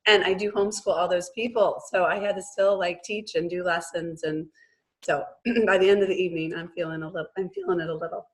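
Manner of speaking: froggy, worn-out voice after losing it; hoarse voice. Real, not acted. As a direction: speak through a lost, froggy voice. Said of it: "I'm sounding kind of froggy and I just have lost my voice".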